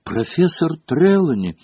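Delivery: high-pitched excited cry; sudden exclamation. A narrator's reading. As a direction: burst out suddenly to get the teacher's attention. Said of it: "вдруг воскликнула Лаванда так". (внезапный восторженный возглас высоким голосом)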